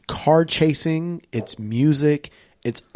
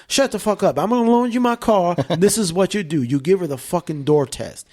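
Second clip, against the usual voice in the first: gruff gangster; 6 semitones higher than usual. Retold or imitated. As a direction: lay down the law. Gangster voiced in story.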